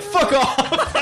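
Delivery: put-on high, cheeky kid telling a stranger off; a hint of a mouthy kid; kid's defiant retort. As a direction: toss it off like a brash little brother. Little brother tells man off.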